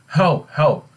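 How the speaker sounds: high, loud storybook alarm; acted cry for help. Queen cries out, fearing murder.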